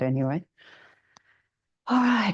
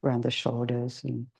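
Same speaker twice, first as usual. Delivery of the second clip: guided meditation. Acted. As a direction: ease the group gently into stillness.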